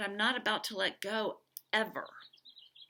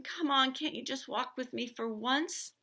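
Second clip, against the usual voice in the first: exasperated shout; 6 semitones higher than usual. A narrator's reading. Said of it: "I scream".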